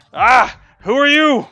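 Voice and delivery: loud high alarmed yell. A narrator's reading. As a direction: shout it at the intruders. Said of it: "hear one of them yelling out".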